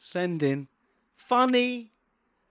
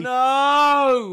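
disgusted no; 9 semitones higher, 8 dB louder than usual. Real, not acted. Reacting to disgusting story.

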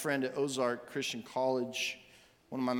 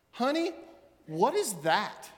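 puzzled question; 5 semitones higher than usual. Retold or imitated. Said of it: "his wife came out ... said".

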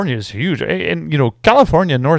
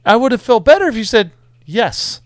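imitating a friend; 8 semitones higher than usual. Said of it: "It's like".

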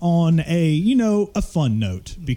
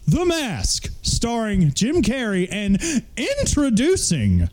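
ringmaster; 3 semitones higher, slower than usual. Acted. Finishes the grand announcement.

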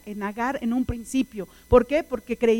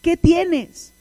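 "¿Qué tienes?" pitched up and louder, then falling; emphatic question; 6 semitones higher, 6 dB louder than usual. Acted. Preacher puts God's question to the listeners, insistent "¿Qué tienes?". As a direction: drive "¿Qué tienes?" home.

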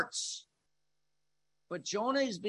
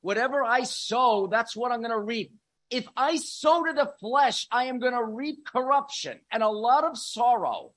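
higher and louder, driving hard; forceful preaching; 6 semitones higher, 6 dB louder than usual. Acted. Preaching the verse at full force.

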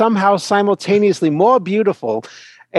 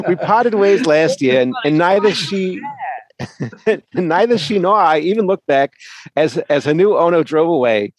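laughing. Real, not acted. Laughing while reading heartbreak email.

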